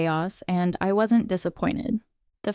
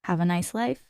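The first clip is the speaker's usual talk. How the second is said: calmest sweetest voice; 2 semitones lower than usual. Acted. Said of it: "in the calmest, sweetest voice possible".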